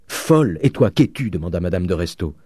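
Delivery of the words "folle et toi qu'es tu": high, sharp counterattack; indignant retort. A narrator's reading. Countess retorting to her sister, indignant. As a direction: throw it back at her, pitched high.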